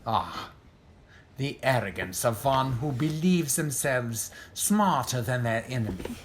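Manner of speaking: ordinary talk, nothing marked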